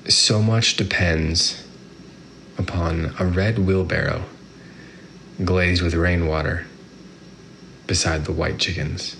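very slow poem reading with long pauses; poem recitation. Acted. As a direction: savour each line, slowly. Reads the poem first time.

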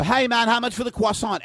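put-on British accent. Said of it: "always do it in a British accent".

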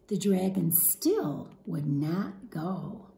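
lively, expressive storybook read-aloud; animated picture-book narration; reading to children. Acted. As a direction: read it to a class of young kids.

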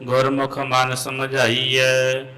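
measured chant of Gurbani; santhya recitation. Real, not acted. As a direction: recite slowly, line by line. (Gurbani ਦਾ ਸੰਥਿਆ ਪਾਠ)

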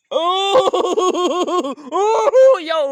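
high, loud delighted wow; excited cheer. Real, not acted. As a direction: cheer with a laugh. Baby climbs a step.

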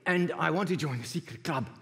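eager caller voice. Retold or imitated. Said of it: "He said".

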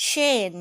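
"chain" loud, high start, falling; stressed syllable. Shown as a demonstration. Teacher sounds out the word, stressed syllable. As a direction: punch "chain" as one strong long-A syllable. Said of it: "เน้นที่พยางค์ที่หนึ่ง".

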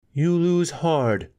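high, slow and cold; cold woman's voice. A narrator's reading. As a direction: repeat it slowly and coldly. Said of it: "she repeated".

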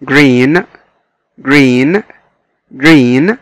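green said clearly with a rising tune; model pronunciation. Shown as a demonstration. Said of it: "كلمة green".

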